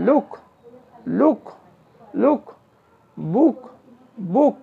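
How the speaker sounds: লুক and বুক with a held u; one word at a time, stretching the u in লুক, বুক; lengthened u. Shown as a demonstration. Teacher showing students example words, lengthened u in লুক and বুক. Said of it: "আরও দীর্ঘ হবে".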